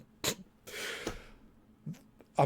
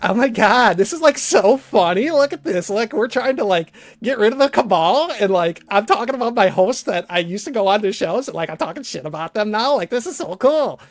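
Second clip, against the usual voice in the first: gloating, a little higher, hammed-up; mocking imitation of Tom; 4 semitones higher, 4 dB louder than usual. Streamer mocks Tom as a gloating host, mildly higher and louder. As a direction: play the smug host crowing over his own lies. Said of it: "I'm just imitating him".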